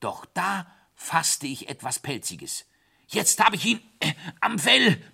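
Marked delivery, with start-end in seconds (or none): 3.1-5.0 high, loud triumphant cry; excited call. A narrator's reading. Narrator grabbing the hare in the water, calling out. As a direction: call it out pitched well up. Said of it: "rief ich".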